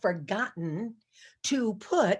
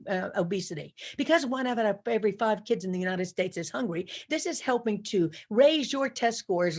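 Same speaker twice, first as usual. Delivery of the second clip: polite confident demo. Shown as a demonstration. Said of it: "And you say".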